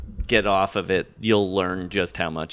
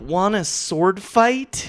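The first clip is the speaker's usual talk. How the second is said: movie quote voice; 10 semitones higher, much slower than usual. Retold or imitated. Quoting a movie line.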